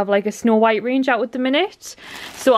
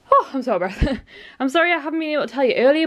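giggling through an apology; laughing; 3 semitones higher, faster than usual. Real, not acted. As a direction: laugh while saying sorry. Laughs while apologising to viewers.

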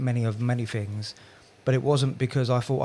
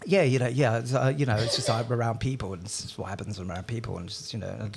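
awkward excuse. Retold or imitated. Boyfriend explaining his accent away, hesitant and fading.

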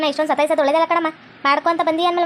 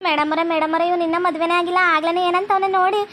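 put-on complaining girl; 3 semitones higher than usual.

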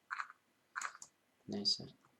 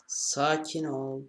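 soothing; 3 semitones higher, 3 dB louder, much slower than usual. Real, not acted. Soothing the cow.

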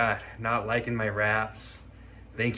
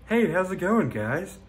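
different voice; 7 semitones higher, 6 dB louder than usual. Shown as a demonstration. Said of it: "I can talk differently too".

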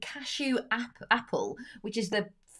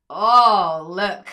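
surprised; 13 dB louder than usual. Real, not acted. Cake tipped out onto tray.

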